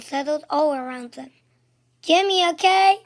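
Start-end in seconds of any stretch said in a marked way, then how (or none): 2.0-3.0 high, loud cheerleader call; cheer shout. A narrator's reading. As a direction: belt it out like a cheer. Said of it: "shouted the cheerleaders".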